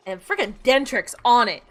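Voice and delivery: normal talking voice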